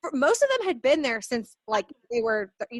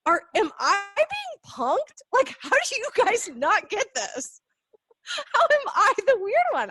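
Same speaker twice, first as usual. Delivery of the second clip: incredulous disbelief; 8 semitones higher, 4 dB louder than usual. Retold or imitated. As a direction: ask as if you're being pranked. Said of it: "that always was just like".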